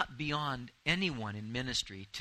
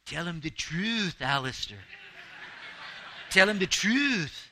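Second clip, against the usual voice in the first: slow, solemn voice of the Lord; 5 semitones higher, 6 dB louder than usual. Retold or imitated. Preacher voicing the Lord's command to him, slow and solemn. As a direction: intone it slowly as God speaking. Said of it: "the Lord said".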